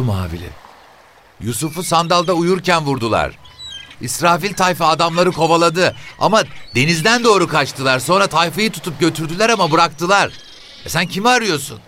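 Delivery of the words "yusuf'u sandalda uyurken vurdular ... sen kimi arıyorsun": very high-pitched, insistent telling; shrill woman. Acted. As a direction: tell it as a shrill, nosy woman. Voices the woman telling story. (tiz, cırlak sesle anlatan kadın)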